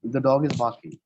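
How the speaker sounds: "barking" drops at the end; falling on barking. Shown as a demonstration. Teacher showing a statement that falls. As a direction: let "barking" fall. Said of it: "So barking, it comes down".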